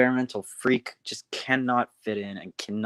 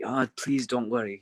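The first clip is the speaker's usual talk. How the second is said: mildly pleading, sincere reassurance; apologetic. Acted. Scott answering another engine's apology, apologetic and sincere. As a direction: brush off the apology kindly. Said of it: "Scott's all apologetic".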